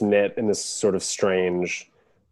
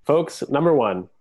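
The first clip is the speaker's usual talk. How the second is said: higher-pitched mock candidate; debate voice; 7 semitones higher than usual. Podcast host addressing folks about hats, mock debate voice. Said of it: "This is my debate voice".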